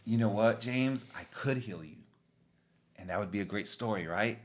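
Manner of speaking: a quiet, tender Jesus speaking to a struggling disciple; soft-spoken Jesus. Retold or imitated. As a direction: gently tell James, almost under your breath. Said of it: "And Jesus is telling him why".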